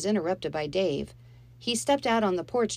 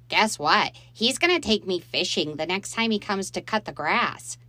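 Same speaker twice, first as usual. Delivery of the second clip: put-on louder, eager boy bursting with news; excited boy; 3 semitones higher, 5 dB louder than usual. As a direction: blurt out the good news. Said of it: "Michael was too excited".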